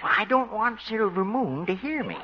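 hushed, confidential aside; whispering. Acted. Horse doctor keeping a secret from his horse, hushed. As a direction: keep it down so she won't overhear. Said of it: "What are you whispering about".

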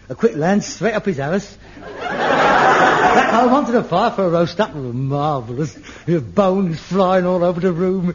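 hearty squire. Pretend. Harold daydreams as a hunting squire.

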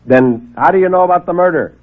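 sarcastic fast-talking hack; brash reporter. Acted.

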